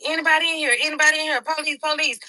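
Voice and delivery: police announcing themselves; mild retold call of the police; officers calling. Officers searching the house.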